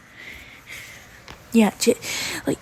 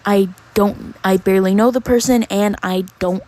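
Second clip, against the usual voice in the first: annoyed loud retort; 6 dB louder than usual. Retold or imitated.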